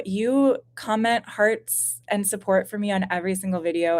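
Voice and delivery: usual speaking voice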